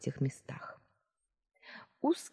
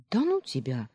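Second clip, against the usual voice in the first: playful threat; 4 semitones higher than usual. Acted. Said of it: "пригрозила мужу".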